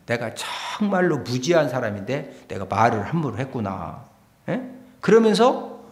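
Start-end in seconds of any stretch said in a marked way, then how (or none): 0.0-4.0 low, soft self-reproach; hushed, humbled admission; rueful realization. Acted. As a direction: say it to yourself as it dawns on you. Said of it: "깨달았느냐?".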